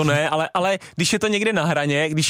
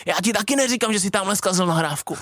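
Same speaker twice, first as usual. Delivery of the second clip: imitated arrogant ref, raised pitch; lightly mocked haughty comeback; arrogant referee; 4 semitones higher than usual. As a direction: put a player down as a snotty referee. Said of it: "ty arrogantní rozhodčí jsem neměl rád".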